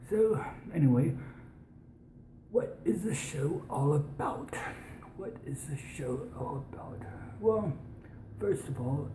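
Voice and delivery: put-on, overly posh British accent; an American doing dodgy posh British. Real, not acted. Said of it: "speak in a British accent these days".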